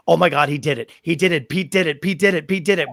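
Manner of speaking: choked-up, rising excitement; happy tears, building; tearful joy. Retold or imitated. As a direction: keep repeating it, overcome. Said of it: "I burst into tears".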